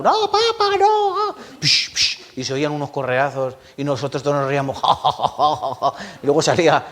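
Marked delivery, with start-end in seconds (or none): 0.0-1.3 very high pleading child's cry, mimicked; mock the boy Jaro begging his father; imitating a beaten boy. Preacher imitates neighbor boy begging his father to stop, very high. 1.6-2.2 unvoiced whip cracks, psh psh; belt-lash noises. Preacher imitates the father's belt lashes with a sharp psh.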